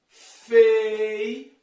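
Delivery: "Feiura" split into slow syllables with gaps. Shown as a demonstration. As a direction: sound out "Feiura" syllable by syllable, holding each one. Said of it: "olha só a separação".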